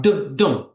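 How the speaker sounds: "du-, dum" as two separate stressed beats; two strong beats. Shown as a demonstration. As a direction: hit both "du-" and "dum". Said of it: "stressed followed by stressed".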